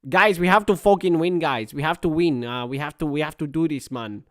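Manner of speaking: lightly put-on accented manager's team talk; rally the players in an imitated manager's accent; mock dressing-room plea, easing off by the end; Mikel Arteta. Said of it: "Mikel Arteta's doing a team talk".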